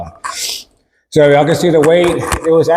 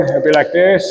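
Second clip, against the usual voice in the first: talking with stomach pulled in; sucking in stomach. Shown as a demonstration. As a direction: say it while sucking your gut in. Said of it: "If I wanted to suck it in".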